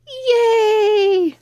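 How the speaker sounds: high, loud happy cheer with a laugh; excited cheer. Acted. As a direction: cheer like a thrilled child. Children cheer plan.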